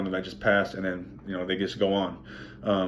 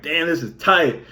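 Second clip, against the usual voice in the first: surprised thought; 7 semitones higher, 3 dB louder, slower than usual. Retold or imitated. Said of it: "Just thinking that to myself".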